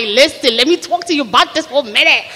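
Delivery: opinionated American woman, swooping pitch; Taquanetta. Acted. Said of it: "So Taquanetta, like, she got, like, an opinion".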